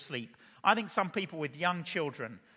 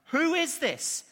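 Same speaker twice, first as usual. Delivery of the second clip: raised, higher pitch, stunned question; terrified; 9 semitones higher, 4 dB louder, much slower than usual. Acted. Disciples asking each other after the calmed storm, terrified. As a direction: ask it in alarmed awe. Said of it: "They were terrified and asked each other".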